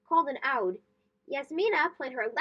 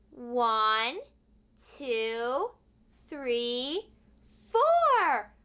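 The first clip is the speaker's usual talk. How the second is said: counting aloud; 5 semitones lower, much slower than usual. Shown as a demonstration. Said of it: "let's practice some counting".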